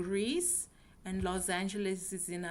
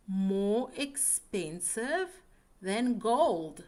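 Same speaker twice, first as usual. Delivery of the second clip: teacher modelling the comparative, slow; stress on more; slower than usual. Shown as a demonstration. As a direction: stretch the word more, land on gold. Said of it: "'Cause we are comparing two things".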